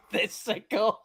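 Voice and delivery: laughing as he owns up, high and slow. Real, not acted. Host owns up to the Pepsi prank, laughing. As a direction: giggle out the confession.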